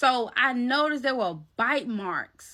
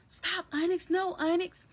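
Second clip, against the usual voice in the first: retold alarm; 7 semitones higher than usual. Overheard through headphones as cat attacks, mock alarm. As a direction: imitate someone calling off an attacking cat, high-pitched.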